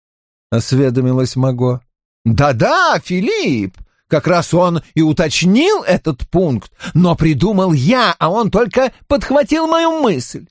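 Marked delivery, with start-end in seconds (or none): 2.2-10.5 king's voice. Acted. King Louis answers.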